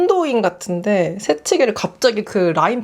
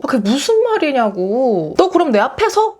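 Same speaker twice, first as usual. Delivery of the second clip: higher, incredulous retort climbing up; mock indignant; 4 semitones higher than usual. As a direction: play the cutter acting wronged. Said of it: "황당하다는 얼굴로". (황당하다는 듯 따지는 말투)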